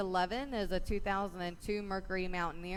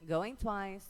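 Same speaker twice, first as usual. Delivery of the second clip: rapid rhythmic bid calling; auctioneer; faster than usual. Real, not acted. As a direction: auction chant, numbers rolling. Auction chant calling bids.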